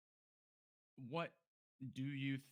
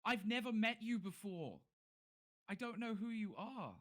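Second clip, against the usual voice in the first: high, louder, slower insisting guard; desperate protest; 11 semitones higher, 6 dB louder than usual. Acted. Guard pleads to captain he's a stranger, loud and high. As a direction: plead he's never met him.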